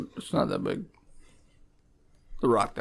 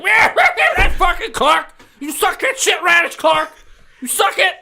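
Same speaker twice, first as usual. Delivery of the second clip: high, laughing taunting yell; mocking jeer; 13 semitones higher, 4 dB louder than usual. Orc laughing and jeering at Clark after the hit. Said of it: "the orc is just like".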